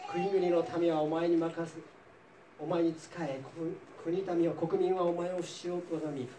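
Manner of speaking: measured Bible reading voice with light character colour; scripture reading. Acted. Teacher reading Genesis to the class, measured reading voice. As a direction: read the passage out to the class.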